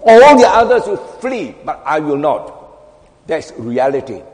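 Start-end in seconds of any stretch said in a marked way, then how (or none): 0.0-2.6 Peter. Acted. Preacher voicing the disciple's boast to the congregation, proudly. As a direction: boast it out, then fall away. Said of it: "Would we say like Peter".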